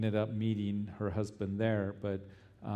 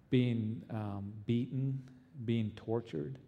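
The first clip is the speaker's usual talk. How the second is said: earnest pleading prayer. Acted. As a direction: pray earnestly for the persecuted. Pastor leads congregation prayer.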